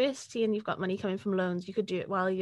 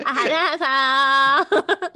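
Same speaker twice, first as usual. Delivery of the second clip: slow, laughing through the words; 5 semitones higher, 8 dB louder, much slower than usual. Real, not acted. Answering her friend's joke, laughing. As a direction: let the laugh carry it.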